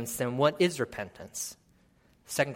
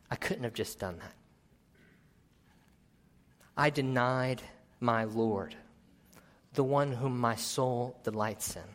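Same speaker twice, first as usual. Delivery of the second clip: Peter's anguish. Acted. Preacher voicing Peter after his denial, hushed then rising to a cry. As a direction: voice a guilty disciple whose grief builds to an outcry. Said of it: "You can imagine the realization setting in over Peter".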